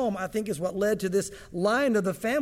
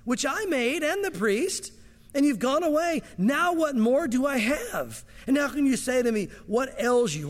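higher, slow, pleading lament; grieving plea; 4 semitones higher, slower than usual. Retold or imitated. Micah pleads with the Danites, grieving lament. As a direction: plead for what was stolen. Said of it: "he said to them".

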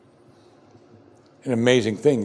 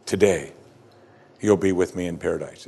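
reassuring; 5 semitones lower than usual. Shown as a demonstration. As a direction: savour each word like a promise. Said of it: "How reassuring is that".

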